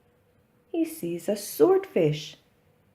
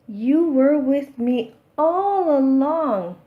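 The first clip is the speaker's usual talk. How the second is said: delighted; 6 semitones higher, 6 dB louder than usual. Acted. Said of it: "says Pete".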